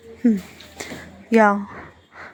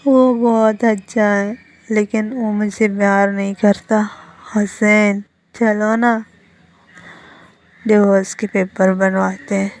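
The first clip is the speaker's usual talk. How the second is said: put-on sounding drunk; 3 dB louder than usual. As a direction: let the words drag and swell like a drunk. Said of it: "ऐसा sound कर रहा था जैसे उसने drink किया". (हल्का नशे में, खिंचे हुए शब्द)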